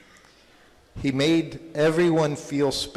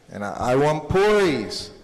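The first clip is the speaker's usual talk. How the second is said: a bit louder, insistent, mildly angry; retold angry demand; 5 dB louder than usual. Boy insisting to his mother on puris, mildly angry. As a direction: put some mock anger into wanting puris. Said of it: "So finally he gets angry".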